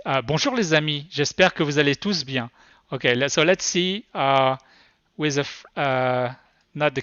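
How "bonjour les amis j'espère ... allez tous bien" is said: natural native French from France; France French accent. Shown as a demonstration. Presenter showing his own pronunciation against the Canadian voice, France French accent. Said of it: "France French voice".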